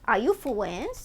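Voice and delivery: silly mock French accent with softened R. Streamer imitating random callers, mock French accent. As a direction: ask it in a babyish fake French accent. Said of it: "People call you randomly and say".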